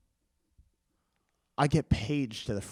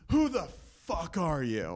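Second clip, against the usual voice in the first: higher, laughing mock demand; mock angry caller; 6 semitones higher, slower than usual. Stranger on the phone demands who he is, mock angry. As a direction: play the furious stranger half-laughing. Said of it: "this guy on the other end goes".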